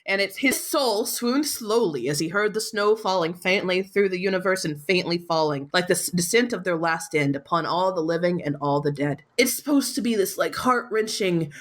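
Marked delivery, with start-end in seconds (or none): 0.4-9.2 literary recital, sinking in pitch; memorized recitation. Acted. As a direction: recite a famous closing line from memory. Recites the memorized final line.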